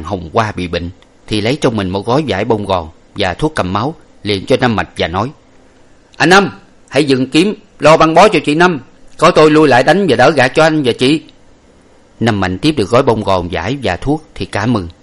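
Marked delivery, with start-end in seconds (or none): 6.2-11.2 much higher, louder urgent call. A narrator's reading. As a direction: shout orders over the fighting. Commander calls out mid fight. (gọi lớn ra lệnh giữa trận)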